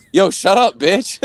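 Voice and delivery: jokey, high-pitched telling-off; sarcastic. Retold or imitated. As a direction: blurt it as a sarcastic joke. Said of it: "the most sarcastic, like, way".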